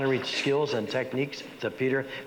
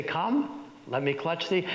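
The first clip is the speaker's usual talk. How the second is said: Macbeth looking at the audience; 3 semitones higher, slower than usual. Acted. Macbeth turns to the audience, lightly voiced. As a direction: share the moment with the audience. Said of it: "looking at the audience".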